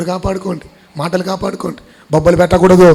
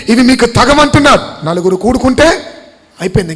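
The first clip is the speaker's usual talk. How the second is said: rebuking list driven home from the pulpit; insistent, raised-pitch exhortation; forceful preaching; 3 semitones higher, 4 dB louder than usual. Real, not acted. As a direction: preach it hard, stretching the commands.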